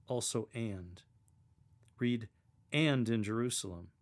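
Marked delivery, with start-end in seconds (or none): 2.7-3.9 adding a detail. Shown as a demonstration. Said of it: "as if you're adding another detail to the story".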